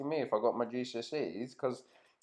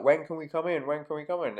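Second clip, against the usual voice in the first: higher-pitched imitation of an impatient customer; mock shouting; 5 semitones higher, faster than usual. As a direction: pester the doorkeeper in a mild mock yell. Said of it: "starts shouting at the woman at the door".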